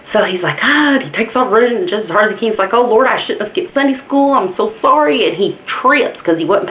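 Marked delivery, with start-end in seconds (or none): 0.6-0.9 high, short "ah" of alarm; mock frightened cry. Man fleeing a bear, acted. 2.7-5.3 high-pitched, pleading apology on the run; mock panicked plea. Fleeing man pleads with God.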